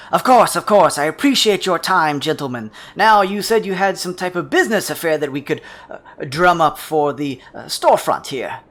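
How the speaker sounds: loud, hearty salesman with a big grin; toothy-grinned shopkeeper. Acted. Shopkeeper greets business partners with a handshake, loud grinning welcome. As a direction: boom it out through a toothy grin. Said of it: "another toothy grin on his face and says".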